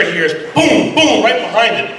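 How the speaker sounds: high, laughing at the punchline; can't keep a straight face telling the joke; chuckling storyteller cracking himself up; laughing through it. Real, not acted. Laughing at his own punchline.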